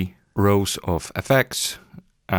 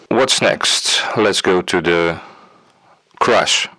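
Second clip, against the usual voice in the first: wobbly tape warble; 3 dB louder, slower than usual. Shown as a demonstration. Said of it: "and wow and flutter effect".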